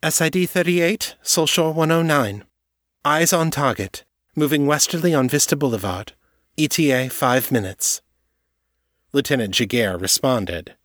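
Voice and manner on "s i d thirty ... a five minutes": radio voice. Acted. Radio call from sniper.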